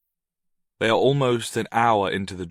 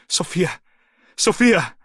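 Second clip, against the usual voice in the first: high, loud desperate calling; bellowing her name into the dark; 9 semitones higher, 8 dB louder than usual. A narrator's reading. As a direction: call out for her with everything. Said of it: "Noah bellows her name".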